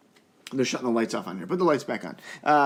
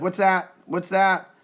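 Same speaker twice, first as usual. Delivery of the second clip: put-on startled kids; 5 semitones higher, 6 dB louder, slower than usual. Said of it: "They're like".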